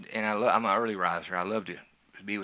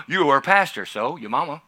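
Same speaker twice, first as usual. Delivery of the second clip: louder and higher gasp of scandal; mock shocked gasp; 4 semitones higher, 7 dB louder than usual. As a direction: play the scandalised churchgoer. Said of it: "voicing shocked listener".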